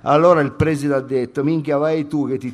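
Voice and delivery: lightly voiced slangy student; brash student character. Student explaining Italo's absence, brash character. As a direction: report it like a cheeky street kid. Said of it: "Devo entrare nel personaggio".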